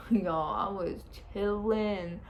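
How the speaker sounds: slow, stretched-out and chilled; retelling a lazy epidural bliss; blissed-out drawl. Retold or imitated. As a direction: draw it out, totally relaxed. Blissed out once epidural works.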